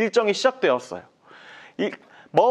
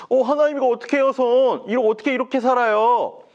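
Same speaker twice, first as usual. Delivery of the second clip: higher, fast alarmed cry; panicked Moses; 8 semitones higher, 4 dB louder than usual. Acted. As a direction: blurt it out in a panic over the hand. Moses sees diseased hand. (높고 빠르게 당황한 모세)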